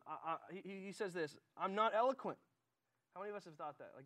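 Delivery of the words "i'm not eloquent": loud, higher-pitched protest as Moses; mildly panicked objection, pushed up; mock freak-out. Moses objects to God's call, mildly freaking out. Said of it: "Moses is freaking out".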